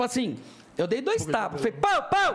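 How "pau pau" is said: two high, punchy bangs; high-pitched sound-effect pops; imitated bangs. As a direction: punch out two sudden bang noises. Acts out effect of two puffs.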